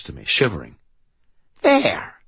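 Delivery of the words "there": high, loud possessed voice; demonic rasp. Acted. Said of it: "like Linda Blair's impression of a demon-possessed victim".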